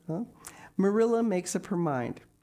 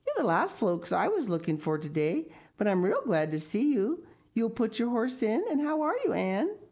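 higher, bustling hostess voice; fussy neighbour woman; 7 semitones higher, faster than usual. A narrator's reading. Mrs Spencer welcomes Marilla and Anne, high and bustling. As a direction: welcome them in a high, busy chatter.

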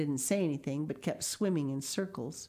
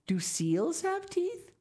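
put-on high, slow child's question; curious little girl; 13 semitones higher, slower than usual. A narrator's reading. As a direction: drag it out wonderingly. Sal asks father.

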